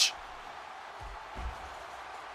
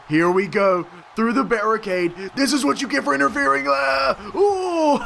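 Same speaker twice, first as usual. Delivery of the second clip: rising, louder and higher battle cry; excited yelling, building; 8 semitones higher, 4 dB louder than usual. Real, not acted. Player driving the opponent through the barricade, building excitement. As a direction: build from hype to a high whoop.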